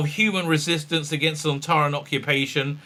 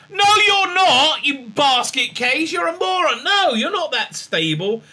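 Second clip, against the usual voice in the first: mocking Bell voice; 11 semitones higher, 5 dB louder than usual. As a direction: sneer it down at her as Bell. Bell insulting the Doctor.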